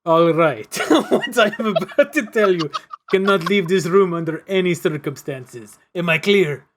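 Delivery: loud, commanding official voice; lightly voiced stern commissioner. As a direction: lay down the law to the room. Commissioner character voice.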